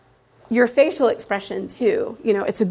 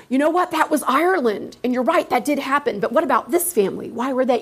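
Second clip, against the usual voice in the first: bright, higher, eager teacher voice; excited praise; 3 semitones higher than usual. Pretend. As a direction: lift up a student's answer with delight. Teacher praising a wrong guess.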